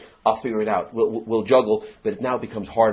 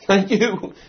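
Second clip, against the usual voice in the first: swagger; much slower than usual. Retold or imitated. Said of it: "there's a certain swagger".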